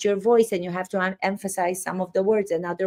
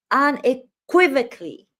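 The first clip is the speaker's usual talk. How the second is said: UNEQUIVOCALLY pushed high and punched; "unequivocally" said higher, with hammed-up emphasis; mock over-emphasis; 5 semitones higher, 4 dB louder than usual. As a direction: imitate a lawyer overplaying "unequivocally". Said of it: "put the emphasis on each word".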